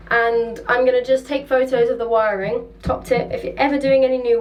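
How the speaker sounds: echoey enclosed space; speaking inside a hollow locker; anchor locker echo. Real, not acted. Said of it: "as you can hear by the echo".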